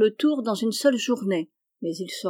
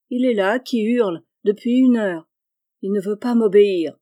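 louder, fed-up complaint; exasperated; 5 dB louder than usual. Acted. Aunt to nephew about the disobedient boy, exasperated. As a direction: complain at the end of your patience.

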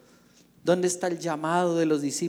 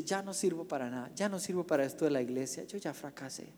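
mild dejection; 4 dB quieter than usual. Acted. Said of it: "se va llorando, frustrado, amargado".

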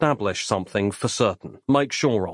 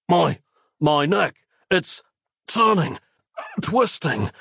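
gasped; 5 semitones higher, slower than usual. Acted. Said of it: "gasped Nick".

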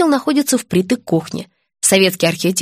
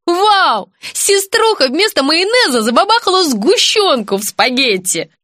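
yelling; 7 semitones higher than usual. A narrator's reading. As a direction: shout out the sister's blunder. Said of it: "заорал".

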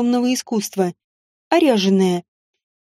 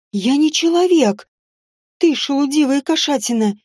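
hissed insult. Acted. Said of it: "прошипела ненастоящая Элла".

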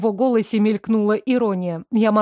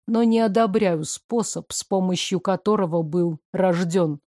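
lower, even male voice; calm man; 3 semitones lower than usual. Acted. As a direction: play him calm and reserved.

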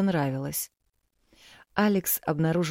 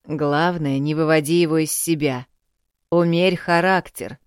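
louder, stern instructing father; lecturing father; 6 dB louder than usual. Acted. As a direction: lecture her firmly. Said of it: "поучал родитель".

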